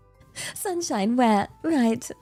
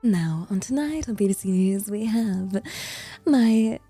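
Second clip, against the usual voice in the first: exaggerated proper British news-presenter voice; playful, extra-British broadcast accent; put-on proper British accent. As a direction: lay the British on with extra pizzazz. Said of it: "attempt at doing a proper British accent".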